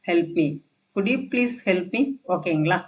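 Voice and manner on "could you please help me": slow, higher polite question; polite request. Shown as a demonstration. Teacher rewords "help me" for learners, polite request. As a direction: ask courteously, word by word. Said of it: "இந்த மாதிரி பேசி பாருங்க".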